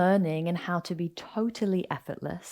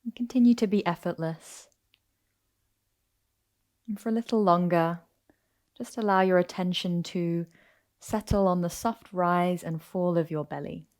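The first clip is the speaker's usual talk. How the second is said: calm, unhurried yoga nidra guidance; guided meditation. Acted. Teacher settling listeners into yoga nidra on their backs, guided meditation. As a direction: ease them into rest, with long pauses between phrases.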